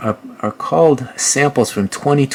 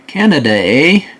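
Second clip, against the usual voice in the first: mock Canadian accent; 3 semitones higher than usual. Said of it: "That's what Canadians say".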